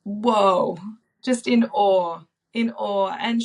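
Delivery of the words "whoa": louder, breathless wonder; a stunned little "whoa"; retelling her awe at the newborn. Retold or imitated. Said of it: "being like".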